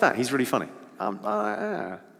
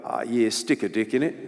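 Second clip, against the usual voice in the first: mock Aussie bloke, lower and softer; Australian accent; 5 semitones lower, 4 dB quieter than usual. Comedian imitating Australian guys heckling a drunk lady, Aussie accent. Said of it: "Australian guys will often go".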